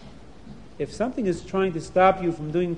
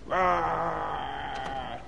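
bear roar; 8 dB quieter than usual. A narrator's reading. Storyteller doing the bear's roar. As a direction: growl it like the bear. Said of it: "make scary growling sounds, bear sounds".

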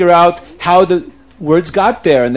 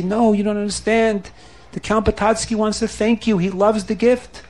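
softer, kindly correction; calm a frightened man softly; gentle reassurance; 3 semitones higher, 5 dB quieter than usual. Acted. Friends reassure the crying manager.

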